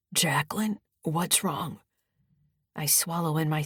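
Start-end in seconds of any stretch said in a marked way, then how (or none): 0.1-1.8 sleepy voice. Acted. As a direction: answer the phone half asleep. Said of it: "saying in a sleepy voice".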